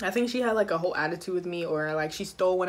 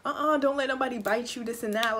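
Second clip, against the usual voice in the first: higher-pitched scolding mom voice; imitated Jamaican mom; 6 semitones higher than usual. Jamaican mom reacting to the bite, higher mimicked scolding. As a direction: mimic a Jamaican mom telling off her kid. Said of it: "how Jamaican moms be".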